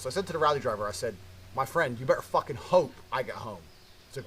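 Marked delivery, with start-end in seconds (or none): 1.5-3.6 mildly menacing retold warning; threatening. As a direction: warn the driver, stressing "hope". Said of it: "I start threatening the taxi driver".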